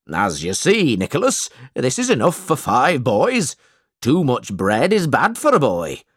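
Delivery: a hint of a smug schoolmaster; lightly voiced miserly schoolmaster; stingy schoolmaster. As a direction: explain meanly, as a self-satisfied schoolmaster.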